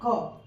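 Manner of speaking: isolated "क" as hard C; letter sound demo. Shown as a demonstration. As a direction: say "क" alone, a k sound for C. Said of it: "इसका उच्चारण क्या है".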